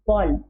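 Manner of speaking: बॉल with a rounded open o, as in English ball; English ball sound. Shown as a demonstration. Teacher shows children the English ball vowel. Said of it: "तो ये क्या हो गया?".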